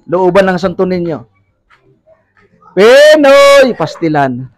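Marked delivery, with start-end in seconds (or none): 2.7-3.8 vendor's call. Real, not acted. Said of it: "sa pagsigaw ko".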